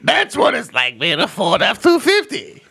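light put-on redneck voice. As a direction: keep the redneck bit going. Continues redneck bit.

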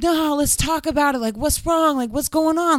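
imitating a guy coaxing her to calm down; pleading protest. Man begging her to talk it out, mock pleading.

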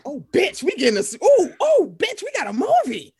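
high, loud excited squeal. Retold or imitated. Thrilled at Henry Cavill's scene, high squeal. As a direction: squeal with delight. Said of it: "I'm like".

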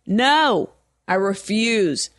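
mock defiant refusal. Caller refusing to talk to a machine, mock defiant.

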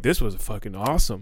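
lightly put-on impression of a comic; light Dylan impression. Host imitating his guest after a good show, lightly put-on. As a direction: mildly imitate an easygoing comic friend. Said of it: "That was my Dylan impression".

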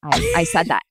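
soft, sincere apology. Retold or imitated. Apologizing to partner Joelle, soft and sincere.

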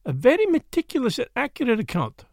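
mildly kind verdict; kindly. A narrator's reading. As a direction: give gentle, sincere praise as a foreign detective. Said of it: "he said kindly".

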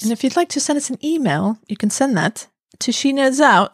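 lightly put-on British accent; a hint of British posh-ish voice. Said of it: "now I'm going British".

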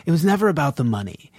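calm movie-quote delivery; mildly acted calm monologue; Bodhi. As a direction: recite it evenly, as a serene speech. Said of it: "Bodhi very calmly goes".

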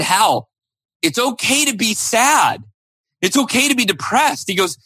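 concerned dad. Retold or imitated. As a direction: gently draw out the hurt son, like a worried dad. Dad gently urging son to talk.

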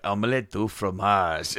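slow, relaxed cartoon imitation; mock lazy contentment; laid-back. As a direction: drawl it like someone lounging on a cruise. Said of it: "he's, like, laying there".

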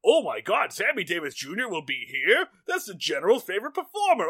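gushing, high-pitched mock excitement; Major Bellows. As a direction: gush breathlessly over a star, hammed up. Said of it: "Bellows is just like".

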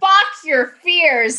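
high, slow and defiant; bold affirmation. Shown as a demonstration. Choosing a keychain phrase, slow defiant cry. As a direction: draw it out high like a battle cry. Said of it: "I love that one".

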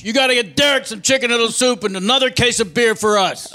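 shouting. Acted. Roommate yelling orders.

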